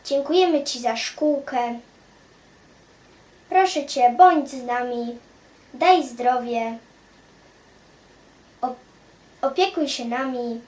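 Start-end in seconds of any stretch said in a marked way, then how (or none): none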